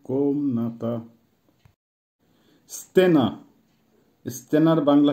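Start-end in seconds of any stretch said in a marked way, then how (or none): 0.0-1.0 কোমনাতা slow and softer, stretched on কোম; drawn-out teaching repeat of কোমনাতা; model pronunciation of কোমনাতা. Shown as a demonstration. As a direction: break কোমনাতা into slow syllables for learners. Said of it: "আবারও বলছি".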